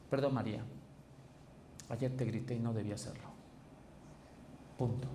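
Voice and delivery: plain, owning the mistake, no excuse; sincere apology. Shown as a demonstration. Husband to María, clean apology with no justification. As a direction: say sorry and stop there. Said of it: "En pocas palabras".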